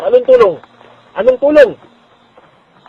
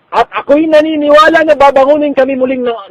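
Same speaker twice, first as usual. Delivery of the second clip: preaching shout; 7 semitones higher, 7 dB louder than usual. Real, not acted. Preacher peaks, full voice.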